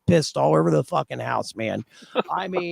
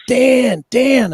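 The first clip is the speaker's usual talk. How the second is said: retold call, louder and higher; 6 semitones higher, 4 dB louder than usual. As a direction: call his name across the house. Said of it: "And I hear this".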